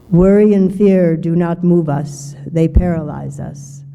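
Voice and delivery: hollow coffee-can boom with the bass turned up; bass-boosted voice. Shown as a demonstration. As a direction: boom it out like a sound engineer cranked the bass. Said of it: "I sound quite authoritative ... trapped in a coffee can".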